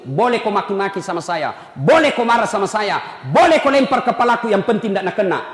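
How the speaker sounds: usual speaking voice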